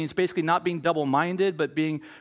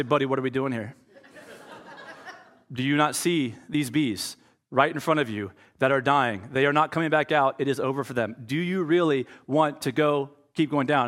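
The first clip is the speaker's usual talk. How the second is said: amused scolding of a bee; 3 semitones lower than usual. Retold or imitated. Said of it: "I say".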